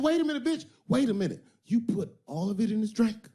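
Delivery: high, loud shocked voice; shocked pimp. Retold or imitated. Iceberg Slim realizing she overdosed him, high and loud. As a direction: catch on in horror, loud and high. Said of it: "He said".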